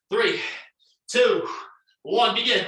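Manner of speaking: loud coach count; shouted countdown. Real, not acted. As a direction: call the start loud. Coach calls workout start.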